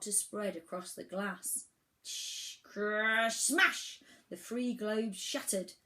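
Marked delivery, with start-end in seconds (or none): 2.0-4.0 imitated shattering. A narrator's reading. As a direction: hiss building to a high, loud smash. Globes cracking and shattering, imitated.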